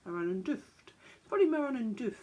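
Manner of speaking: "Maronenduft" with an "oof" vowel at the end; oof sound. Shown as a demonstration. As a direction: round the last vowel of "Maronenduft" to "dooft". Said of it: "more of an oof sound".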